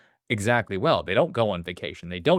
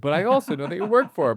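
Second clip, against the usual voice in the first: quoting the man; 8 semitones higher, faster than usual. Retold or imitated. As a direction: rattle it off as the man's punchline. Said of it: "And then he goes".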